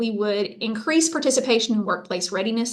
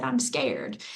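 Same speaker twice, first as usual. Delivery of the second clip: soft scared echo; 3 semitones higher, 6 dB quieter than usual. Retold or imitated. Adviser quietly repeating the student's fear, hushed. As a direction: echo her fear more softly. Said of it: "She just said".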